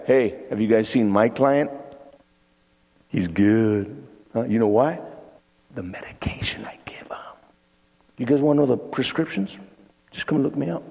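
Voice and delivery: low-key, confiding boast; bragging. Acted. Psychiatrist bragging to the other guys about her client, smugly. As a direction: boast to colleagues on the sly. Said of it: "she's all bragging about him".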